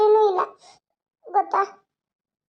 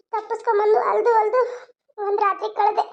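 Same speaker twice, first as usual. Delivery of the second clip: crying; 2 semitones higher than usual. Acted. Frightened woman recounts escaping.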